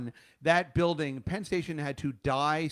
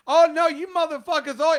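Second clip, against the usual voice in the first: high, loud imitation of a screaming customer; retold scream; 13 semitones higher, 10 dB louder than usual. Host mimics the customer ranting around the station, retold scream. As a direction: yell it out high, mimicking an irate ranter. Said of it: "and just screaming".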